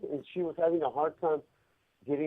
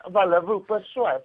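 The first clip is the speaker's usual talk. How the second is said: mock French accent; 3 semitones higher, 4 dB louder than usual. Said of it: "like, a French accent?".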